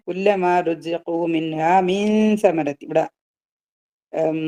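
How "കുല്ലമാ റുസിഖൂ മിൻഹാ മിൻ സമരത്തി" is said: measured Quranic recitation. Acted. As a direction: recite the verse with held tajweed sounds.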